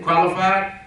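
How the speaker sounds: "qualified" set apart, ending on a rise; single out the word "qualified" with a lifted, pointed ending; stress on qualified. Real, not acted. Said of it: "you notice the word I said".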